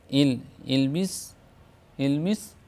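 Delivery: इल with a short ई sound; English word ill. Shown as a demonstration. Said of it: "मिसाल देखिए". (इल, छोटी ई की आवाज़)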